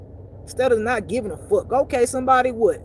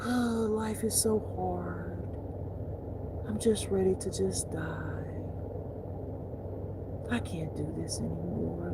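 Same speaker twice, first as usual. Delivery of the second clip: mock despair; 3 semitones lower, 10 dB quieter, slower than usual. Acting a despairing person.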